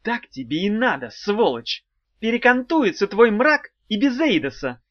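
angry. A narrator's reading. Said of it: "зло сказала она".

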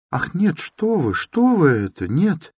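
high, startled denial; a scared girl defending her stepmother; frightened protest. A narrator's reading. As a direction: rush to deny it, alarmed. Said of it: "С каким-то даже испугом".

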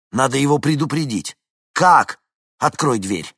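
loud, high anxious commands; urgent orders. A narrator's reading. Vincent urges Henni to open the door, urgent. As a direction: push to warn the man.

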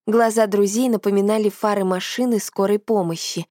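plain reading voice

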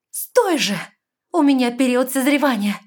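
high, loud cry; frantic plea. A narrator's reading. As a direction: stop him in alarm. Heroine fighting him off.

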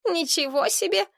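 mildly snide exclamation; mock astonishment with a sting; sarcastic. A narrator's reading. Kustik needling Tina about the water, sarcastic. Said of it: "язвительно заметил Кустик".

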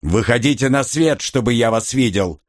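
booming thunder and wind. Acted. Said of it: "вновь прогремел голос".

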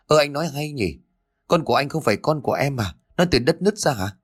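high, sharp indignant wife; indignant retort. Acted. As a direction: throw his words back at him.

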